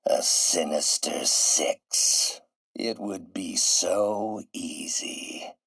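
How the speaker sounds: slow, drawn-out villainous relish; sinister musing. Acted. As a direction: savour each word, slowly. Villain relishing his plot alone.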